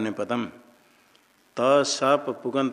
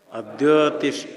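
louder on request; 4 dB louder than usual. Real, not acted. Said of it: "बोलो फिर बोलो".

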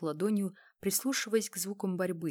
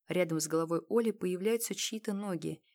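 ordinary delivery

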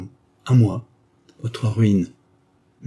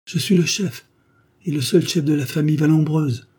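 much higher, proud and firm declaration; with dignity; 8 semitones higher, 5 dB louder than usual. A narrator's reading. Young duke asserting himself as head of the family, dignified. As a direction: stand tall and claim your rank. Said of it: "répondit le jeune duc avec dignité".

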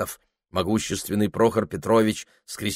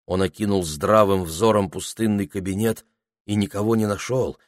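ordinary delivery, nothing marked

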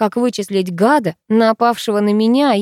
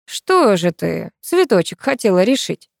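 sneering mockery. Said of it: "не думал скрывать издёвку".

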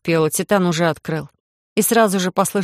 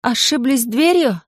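raised voice; 5 semitones higher, slower than usual. Acted. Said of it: "предпочитая повысить голос".

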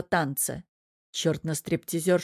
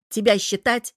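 sarcastic jab; 4 semitones higher, 4 dB louder than usual. Acted. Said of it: "съязвил чёрт".

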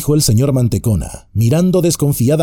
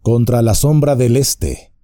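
calmly; 2 semitones higher than usual. Acted. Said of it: "dijo Trancos con calma".

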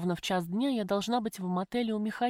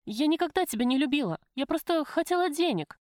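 holding back tears; 6 semitones higher than usual. A narrator's reading. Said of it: "глотая слёзы".

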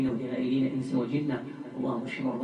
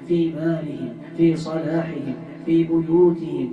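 building from strong to almost shouting, higher; impassioned loud prayer; 4 semitones higher, 7 dB louder than usual. Real, not acted. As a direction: cry out each plea with mounting fervour. Climax of fervent supplication. (دعاء بصوت عالٍ يتصاعد حتى الصراخ)

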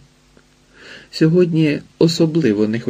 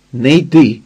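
louder, firm order; commanding; 6 dB louder than usual. A narrator's reading. Izidora to Hotsyk, a louder firm command. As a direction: order him to stay. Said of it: "наказала".

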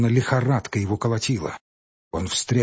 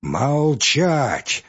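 thundering command; 4 semitones higher than usual. Acted. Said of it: "загремел лесник".

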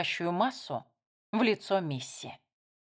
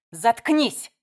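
louder angry snap; snapped; 3 semitones higher, 6 dB louder than usual. A narrator's reading. Missy shuts up her sister with a loud bark. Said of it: "рявкнула Мисси".

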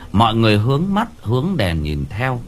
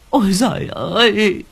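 tiếng kêu thất thanh, cao vút; kêu lên như vừa thấy điều kinh hoàng; gào lên; 10 semitones higher than usual. A narrator's reading. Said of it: "bà cụ gào lên một tiếng". (bà cụ gào lên khi thấy xác chồng, giọng cao)

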